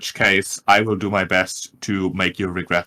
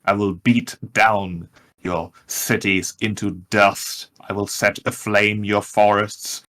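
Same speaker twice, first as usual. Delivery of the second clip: a hint of a proud dragon threatening; deep dragon voice. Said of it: "as in a deep voice".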